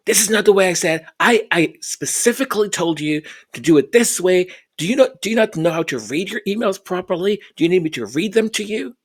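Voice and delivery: impatient mock reprimand; imitating a scolding boss. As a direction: rattle it off like a condescending boss talking down to staff. Retelling a boss scolding staff.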